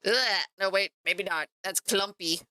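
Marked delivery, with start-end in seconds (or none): 0.1-0.1 disgusted ugh. Real, not acted. Paint turns out clumpy.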